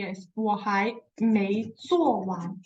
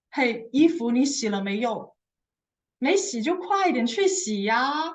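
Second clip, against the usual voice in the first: mildly raised, nagging wife yelling; mock angry wife. Angry wife yelling at her husband about laundry, mildly hammed. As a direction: nag the husband, only half-hearted anger. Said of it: "an angry type of wife to sh-, yelling out at my husband".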